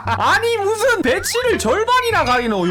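high, laughing incredulous question; laughing disbelief. Real, not acted. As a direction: laugh at the absurd base. Laughing at opponent's base.

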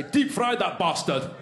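mock Glaswegian order; hammed-up Glasgow accent. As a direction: imitate a coarse Glaswegian. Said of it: "while in Glasgow, they say".

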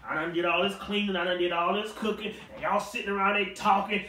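sassy attitude. Acted. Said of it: "Martha probably had attitude at this point".

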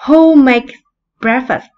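called out loud and high to the class; loud model question. Shown as a demonstration. Teacher calls the model question out loud to her pupils. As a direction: ask it big and clear so the class hears. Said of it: "Bây giờ mình hỏi nhé".

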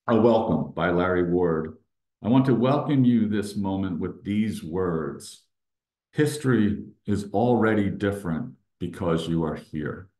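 measured, deliberate read-aloud with pauses; welcome reading. Acted. Speaker reads a welcome statement to meditators, measured reading. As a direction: read it out as a heartfelt address.

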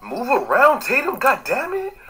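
high, frustrated yelling at teammate; raging gamer. Real, not acted. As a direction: yell in frustration at the screen. Teammate failing in game.

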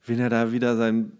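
quiet aside of private dread; inner thought. Pretend. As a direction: think it to yourself, hushed. Voicing her inner thoughts.

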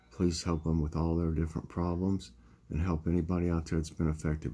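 prayer. Acted. Prays to close the devotion.

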